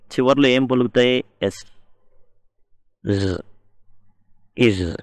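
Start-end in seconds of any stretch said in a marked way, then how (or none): 1.4-5.0 ఎస్ then జ్ then ఇజ్, each ending sound said on its own; plural endings s z iz. Shown as a demonstration. Teacher to students, demonstrating the three plural endings ఎస్, జ్, ఇజ్. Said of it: "ఈ విధంగా పలుకుతాయండి".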